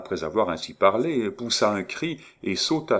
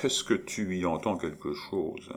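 softer, muttered dismissal under the breath; murmuring; 6 dB quieter than usual. Acted. Maurice murmuring a put-down to Étienne. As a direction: murmur it with a shrug. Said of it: "en murmurant".

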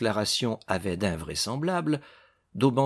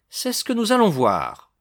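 raised, forceful pitch falling to a firm close; stern retort; 9 semitones higher, 4 dB louder than usual. A narrator's reading. Judge challenges the suspect's denial, sternly. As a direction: snap back severely at the suspect. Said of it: "répliqua sévèrement Daubenton".

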